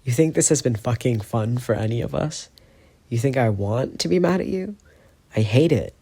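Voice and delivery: cracking, pained voice. Acted. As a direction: let the voice crack. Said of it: "His voice cracks".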